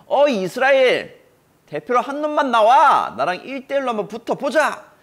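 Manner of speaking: high, loud booming challenge across the valley; Goliath's taunting shout. Acted. Giant taunting the Israelite army, booming shout. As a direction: bellow it like a giant daring the whole army. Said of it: "뭐라고 소리 질렀냐면".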